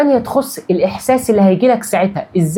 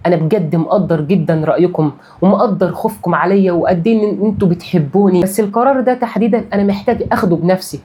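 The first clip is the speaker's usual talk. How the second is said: calm and loving. Shown as a demonstration. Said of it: "قولها بالطريقة دي".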